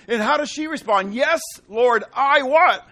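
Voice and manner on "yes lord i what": loud prompting question; louder, rising call. Acted. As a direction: call it out to the pews. Preacher prompting congregation.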